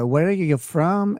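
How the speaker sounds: put-on touch of a Colombian accent. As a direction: lightly mimic a Colombian woman's English. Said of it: "her accent. She sounded like".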